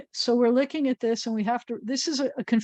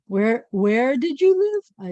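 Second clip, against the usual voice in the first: mock questioner; 2 semitones higher, 5 dB louder, much slower than usual. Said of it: "Like I'm going".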